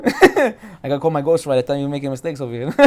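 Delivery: laughing through the joke; amused. Real, not acted. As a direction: chuckle at your own mistake. Joking about own misprint, laughing.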